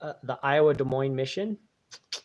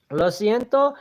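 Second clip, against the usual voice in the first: laughing Spanish; 6 semitones higher, 6 dB louder, slower than usual. Real, not acted. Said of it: "people want me to speak Spanish".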